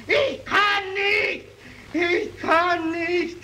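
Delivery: each "Ich kann nicht" drawn out slow, sinking; slow despairing repeats. Acted. Murderer collapsing before the mob, slow despair. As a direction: let the panic drain away. Breakdown subsiding.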